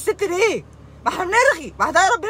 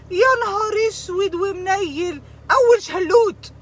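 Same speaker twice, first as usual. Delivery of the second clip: mock wail; 6 semitones higher, slower than usual. Mock lament then outburst.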